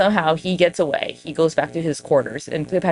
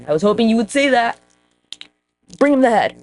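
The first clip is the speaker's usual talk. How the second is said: eager servant, higher; 6 semitones higher, 4 dB louder than usual. Retold or imitated. Guy eager to please Caesar.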